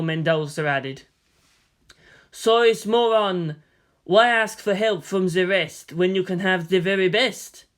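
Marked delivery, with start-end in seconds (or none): 2.3-7.6 arch. Acted. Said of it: "asked archly".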